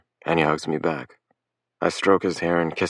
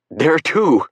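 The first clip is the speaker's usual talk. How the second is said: loud, higher frantic cry; frantic shout; 11 semitones higher, 6 dB louder than usual. A narrator's reading. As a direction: blurt it out in a panic, loud. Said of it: "I'm frantic".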